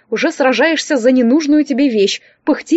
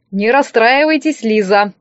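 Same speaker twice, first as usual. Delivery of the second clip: slower, gently consoling; sympathetic; slower than usual. Acted. Demyan consoles Liza after the contest, a touch sympathetic. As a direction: soothe her after the loss. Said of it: "участливо проговорил он".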